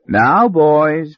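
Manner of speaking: a touch of soothing peacemaker; lightly smooth things over. Acted. Harry calms the quarrelling boys, mildly soothing. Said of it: "in his best oil on troubled waters voice".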